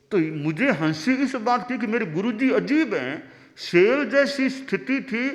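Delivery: high, laughing through the words; can't hold back the giggles; laughing disciple. Acted. (हँसते हुए चेले की ऊँची आवाज़)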